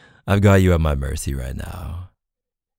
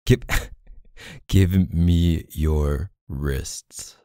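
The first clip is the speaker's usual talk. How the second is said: laughing order; much slower than usual. Acted. Laughing while ordering partner.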